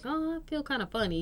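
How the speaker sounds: mild, high-pitched retold complaint; imitating sick daughter. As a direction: lightly voice a kid starting to feel ill. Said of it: "she was just like".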